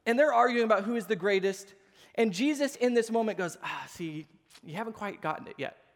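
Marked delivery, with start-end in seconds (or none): 3.6-5.8 softer, patient teacher voice; gentle correction. Retold or imitated. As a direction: quietly let them down easy. Jesus gently correcting the disciples.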